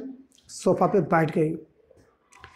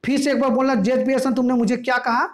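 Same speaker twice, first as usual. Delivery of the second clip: higher, hammed-up angry challenge; mock-furious wife, pitched up; 4 semitones higher than usual. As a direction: dare him to repeat it. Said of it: "गुस्सा के बोली".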